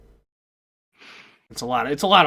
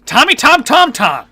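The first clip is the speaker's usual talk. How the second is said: calling out; 10 semitones higher, 6 dB louder than usual. Real, not acted. Calling out to a viewer.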